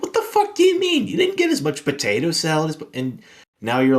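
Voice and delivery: high, loud disbelieving rant; incredulous, outraged shriek; exasperated outburst. Retold or imitated. Retelling outrage at customer.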